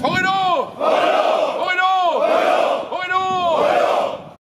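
rallying cheer. Real, not acted. Leads a threefold cheer.

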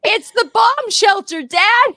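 put-on high, loud, slow proud child; proud kid. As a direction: announce it like a proud little kid. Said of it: "And I was like".

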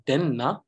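"den na" with too much weight on both sounds; over-emphasized split. Shown as a demonstration. Teacher shows learners the reading to avoid, over-emphasized. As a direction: break "den na" apart with an unnatural pause. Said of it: "puts too much emphasis over the sound".

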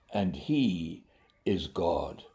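a soft, unvoiced reveal; hushed whisper. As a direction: breathe it out as a whisper. Climax of Elijah's challenge quote.

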